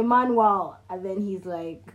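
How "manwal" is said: "manual" said as "man-wal"; mispronunciation. Retold or imitated. Retelling own slip, "manual" as "man-wal". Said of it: "some Nigerian people just mispronounce things".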